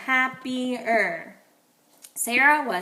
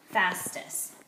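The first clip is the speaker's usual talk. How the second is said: soft whisper repeat; 4 semitones lower, 6 dB quieter than usual. Shown as a demonstration. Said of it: "divide it in the middle here".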